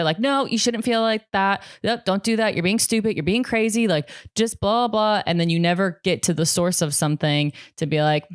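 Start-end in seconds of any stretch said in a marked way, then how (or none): 0.2-5.2 higher-pitched mock scolding; dismissive self-scolding. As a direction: talk yourself out of it in a higher voice. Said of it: "we just coach ourselves out of it".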